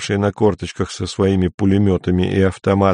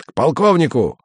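barked order; 4 semitones higher than usual. Acted. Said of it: "рявкнул сержант".

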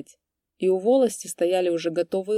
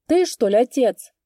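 put-on much higher, louder old man's call; old priest calling; 6 semitones higher, 8 dB louder than usual. A narrator's reading. Old priest calls again from the porch, high and loud. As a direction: peer into the dark and call out.

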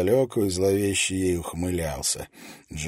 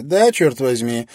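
smiling; 5 semitones higher, 9 dB louder, slower than usual. A narrator's reading. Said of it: "улыбнулась Фрэнки".

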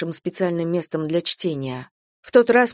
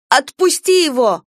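high, loud snap; barked order; 7 semitones higher, 6 dB louder than usual. A narrator's reading. Sister snaps at brother to let go, loud. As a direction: bark at him to let go. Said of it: "рявкнула я".

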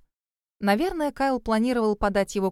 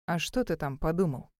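low, quieter challenge; challenging; 4 semitones lower, 5 dB quieter than usual. A narrator's reading. Grove challenges the shocked boyfriend, low and defiant. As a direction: dare him to say it, softer and lower. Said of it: "с вызовом спросил он".

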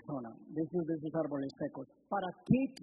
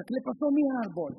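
mock anguished cry; 7 semitones higher, 3 dB louder, faster than usual. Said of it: "lloré, grité de angustia".

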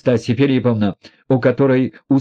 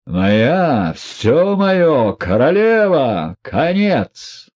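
breathless joy; 5 semitones higher, much slower than usual. A narrator's reading. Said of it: "от радости задыхался".

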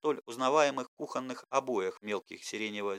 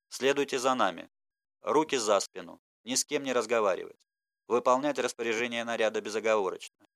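flat monotone orders. Acted. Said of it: "отсутствовали какие-либо интонации".

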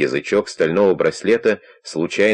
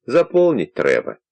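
put-on quavering old man voice. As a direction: play a doddering old man at the door. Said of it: "тем же тоном продолжал Костя".

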